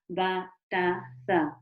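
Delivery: "ba, ta, tha" each with a short open a; quick sample of letters with an a vowel; letters with fatha. Shown as a demonstration. A teacher gives an example of letters with fatha, clear. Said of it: "we're gonna say it like a".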